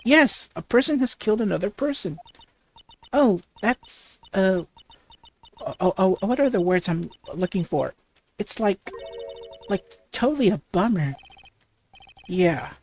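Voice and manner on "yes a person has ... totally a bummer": put-on bubbly valley girl, lots of "like"; ditzy valley girl. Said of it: "like a valley girl would talk".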